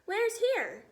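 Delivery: high, loud squawk of alarm; army head crying out in terror; panicked cry. Acted. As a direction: yelp it in terrified confusion. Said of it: "cried the head of the army".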